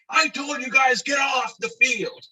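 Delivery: high, drawn-out holler; mock groundskeeper shout; imitated exasperated yell. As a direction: scold them from across the field, stretching the end. Groundskeeper yells at players again.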